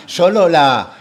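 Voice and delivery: breaking into laughter mid-phrase; laughing. Real, not acted. Lecturer laughs at his own anecdote, laughing slowly. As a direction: laugh through the words, drawn out.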